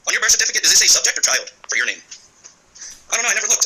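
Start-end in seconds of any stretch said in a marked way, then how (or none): 2.0-3.6 slow, soft, drawn-out mock shrug; mimicking the usual answer. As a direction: imitate the blank reply people always give, slowly. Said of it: "that's the common answer I get".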